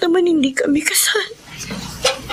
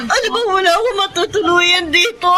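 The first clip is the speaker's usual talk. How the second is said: crying plea; 3 semitones higher than usual. Acted. Wife begging, crying.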